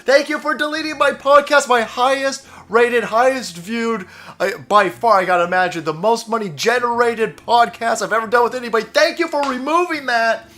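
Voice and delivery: a lightly voiced mocking thank-you; mock grateful thanks. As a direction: mimic a grovelling podcaster. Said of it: "dude's sitting here going".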